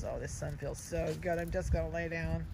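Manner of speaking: voicing the dog. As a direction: speak for a sleepy sunbathing puppy. Voicing dog's thoughts.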